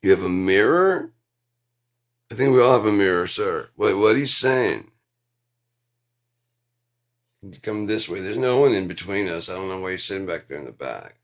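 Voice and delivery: loud stage dialogue. Retold or imitated. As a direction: throw lines loud across the stage. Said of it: "On stage".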